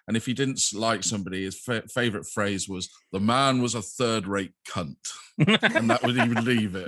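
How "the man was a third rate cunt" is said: lightly imitated well-spoken English accent; a slow, measured touch of well-spoken English. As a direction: quote him in mildly well-spoken tones. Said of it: "very well-spoken voice".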